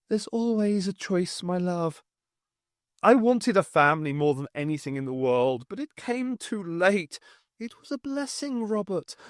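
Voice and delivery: a lilting, sorrowful dead wife; sing-song wife. Acted. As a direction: chide him gently as his lost wife. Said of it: "Morag's sing-song voice".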